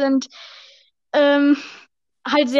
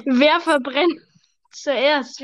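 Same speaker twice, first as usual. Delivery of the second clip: sarcastic; much slower than usual. Shown as a demonstration. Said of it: "Wirklich ein sehr intelligentes Video".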